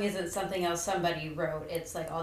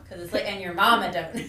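thick country accent; 7 dB louder, faster than usual. Shown as a demonstration. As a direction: sing it thick and Southern. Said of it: "You have to be thick about it".

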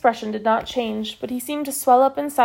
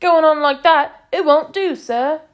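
flustered corporal; 5 semitones higher, 6 dB louder, slower than usual. A narrator's reading.

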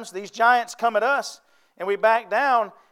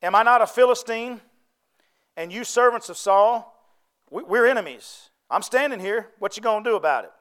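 Goliath's challenge. Retold or imitated. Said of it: "And he says".

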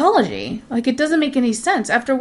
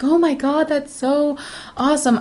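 imitated admirer, pitched up; mock gushing praise; 4 semitones higher than usual. Other people reacting to a good deed, lightly mocked gushing. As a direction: gush it lightly as someone else's praise.

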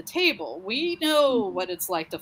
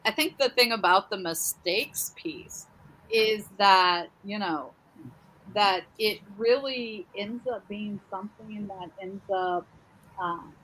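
echoing tunnel. Real, not acted. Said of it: "sound like you're in the tunnel right now".

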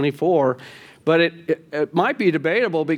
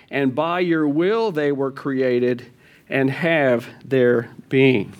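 scripture reading. Acted. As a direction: read it out like a measured scripture lesson. Reads scripture passage aloud.

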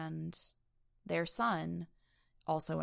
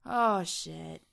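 louder, alarmed "Oh, shit"; alarmed outburst; 5 dB louder than usual. Retold or imitated. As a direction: blurt it out in alarm. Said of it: "you're like".

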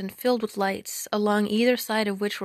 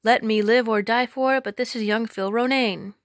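cried out; 4 dB louder than usual. Acted. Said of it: "he cried out".

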